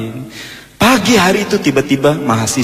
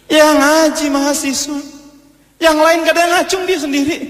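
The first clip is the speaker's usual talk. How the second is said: squeaky, far higher character voice; high put-on voice. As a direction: pipe up in a very high voice. Someone points out the only bachelor.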